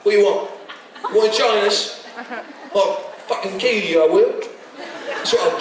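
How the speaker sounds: cheeky London heavy, half laughing; East End brawler. Retold or imitated. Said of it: "an East End brawler".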